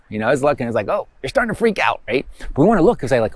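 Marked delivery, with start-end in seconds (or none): 0.9-2.0 voicing the unconscious.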